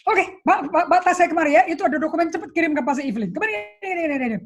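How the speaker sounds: high, loud hurried commands; retelling snapping out tasks at her secretary; impatient orders. Retold or imitated. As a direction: rattle them off like a rushed boss.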